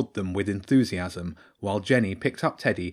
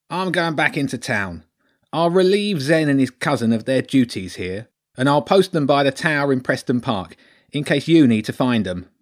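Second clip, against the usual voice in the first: loud rat lord, pitched up; Lord Ratzenberg; 5 semitones higher, 5 dB louder than usual. Acted. Rat lord tells children where guards will be, loud raised voice. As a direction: announce plans in a big rat-lord voice.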